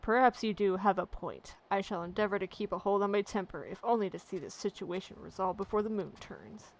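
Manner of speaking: lightly voiced coachman, now composed and grudging; an irate driver cooling off, measured; calmed coachman. Coachman agrees to hold his temper, composed grudging voice.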